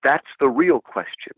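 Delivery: a hint of a Scottish guide, gently wise; lightly voiced Scottish brogue for George MacDonald answering Lewis. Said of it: "in his Scottish brogue".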